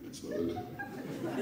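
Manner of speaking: very high, soft voice; mock falsetto for Ismaël; squeaky voice. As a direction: imitate his tiny squeak. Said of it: "il a une voix comme ça".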